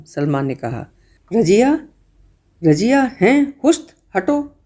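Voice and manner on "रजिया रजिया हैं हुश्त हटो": high, mocking repeat of the name; scornful scoff. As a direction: brush her off with a sneer. Brother scoffs at the oath. (ऊँची, तिरस्कार भरी आवाज़ में)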